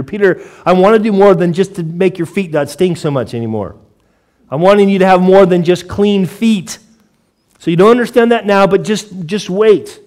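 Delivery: Jesus pleading. Acted. Jesus voiced pleading with Peter.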